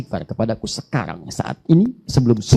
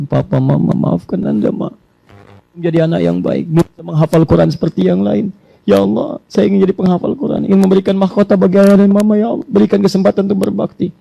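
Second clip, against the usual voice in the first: put-on child's prayer; 5 semitones higher, 5 dB louder than usual. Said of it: "anak Anda yang paling kecil mengatakan".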